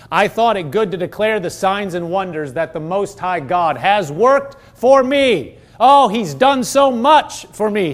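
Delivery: grateful praise. Acted. Preacher voices the king thanking God, grateful and building. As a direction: start measured, lift into heartfelt thanks. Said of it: "he's saying".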